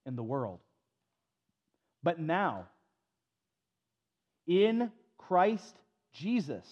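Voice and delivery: solemn Bible reading to the congregation; scripture reading. Acted. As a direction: read the passage with weight and pauses. Reads Ephesians aloud.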